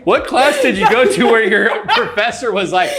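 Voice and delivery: laughing. Real, not acted. Laughing while teasing.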